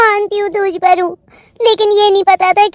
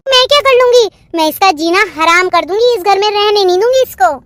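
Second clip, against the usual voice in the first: raised angry threat; 3 semitones higher than usual. Acted. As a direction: spit the threat back at her. Jethani threatens the bride. (ऊँची, तेज़ आवाज़ में गुस्से भरी धमकी)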